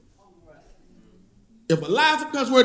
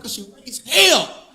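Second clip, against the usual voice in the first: slow deadpan punchline; slower than usual. Retold or imitated. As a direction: drag out the answer slowly. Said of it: "He said".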